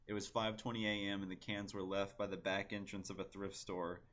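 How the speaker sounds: even, understated poetry reading; poem reading. Acted. Poet reading own invective poem to online viewers, understated recital. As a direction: read it out fluently with little inflection.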